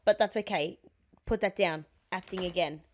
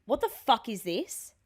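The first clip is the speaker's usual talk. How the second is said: slow confrontation; slower than usual. Acted. Acts girlfriend confronting with phone.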